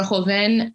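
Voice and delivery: Joven with a Spanish H-like J; corrected Joven pronunciation. Real, not acted. Curator correcting her own slip, Joven said the Spanish way. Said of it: "it's pronounced Joven".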